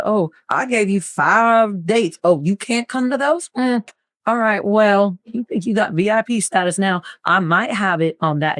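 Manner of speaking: slow, sassy put-down; sassy mock scolding. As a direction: playfully call out a client. Scolding client over email.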